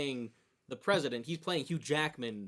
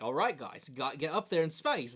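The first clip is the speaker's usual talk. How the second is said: put-on lightly done Australian accent; a hint of Australian accent as a president. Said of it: "That's my Australian accent".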